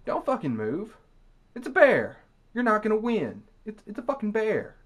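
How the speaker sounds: loud, high, fed-up outburst; 1 exasperated shout. Real, not acted. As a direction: yell it at someone who won't learn. Exasperated rant at the victim.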